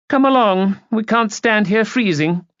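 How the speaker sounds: high, loud-edged summons; imperious lady. A narrator's reading. Lady hurrying the party in from the cold, imperious. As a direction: chivvy them along grandly. Haughty aunt orders party in.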